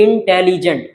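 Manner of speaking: इंटेलिजेंट slowly split into four beats, इं-टे-लि-जेंट; syllable by syllable. Shown as a demonstration. Teacher counting syllables for students, इंटेलिजेंट slowly in four separate pieces. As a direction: sound out इंटेलिजेंट slowly, one syllable at a time. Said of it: "चार flow में निकल रहा है".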